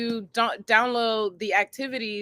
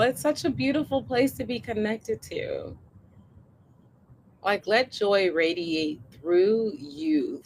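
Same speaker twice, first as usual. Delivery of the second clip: guided meditation. Acted. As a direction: guide them gently into the body. Leads a body scan meditation.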